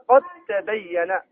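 قد تبين recited slowly with the dal merged into the ta, qattabayyan; slow Quranic recitation with assimilation; slow tajweed recitation. Shown as a demonstration. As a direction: draw out قد تبين so the dal vanishes into a doubled ta. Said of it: "في نحو قوله تعالى".

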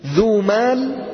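ذو مال said slowly and clearly; teacher models ذو مال slowly; slow model example. Shown as a demonstration. Teacher gives the example ذو مال, slow and clear. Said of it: "الإتمام".

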